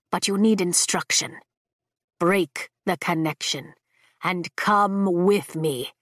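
low, measured, ancient dragon; deep dragon voice. Acted. Dragon Leothan speaks.

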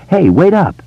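high shouted call across the street. Acted. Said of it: "he shouted".

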